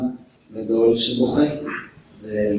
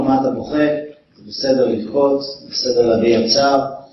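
gentle comfort. Pretend. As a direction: reassure him it is fine to cry. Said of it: "לא, רבי יוחנן לא אמר לו".

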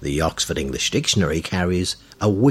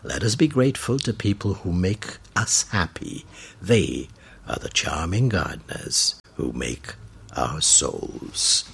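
reading a quote; 3 dB quieter than usual. Shown as a demonstration. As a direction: quote repeated softly, slowing at the end. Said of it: "Let's close with this quote".

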